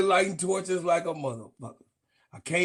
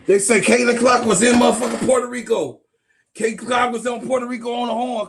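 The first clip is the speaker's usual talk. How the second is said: excited shout; 3 semitones higher, 4 dB louder than usual. Real, not acted.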